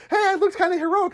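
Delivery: high, pleased voice through a laugh; mock smug hero; proud Dee. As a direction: fish for praise. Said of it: "they're like".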